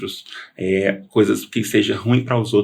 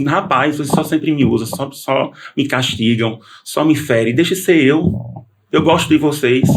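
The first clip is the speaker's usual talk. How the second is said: higher, lightly acted complaint; retold protest; 5 semitones higher than usual. Man complaining to the spirits that use him, mildly acted protest. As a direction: reason with them, pitch lifting at the end.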